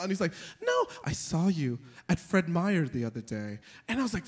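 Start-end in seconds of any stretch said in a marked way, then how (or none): 0.6-3.6 imitated deadpan kid insisting. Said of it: "deadpan tone".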